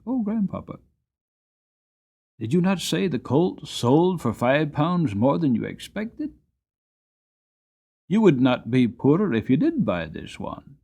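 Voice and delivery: put-on high, eager child's plea; a boy reasoning with his grandpapa; boy begs grandfather to buy, high and eager; begging young boy.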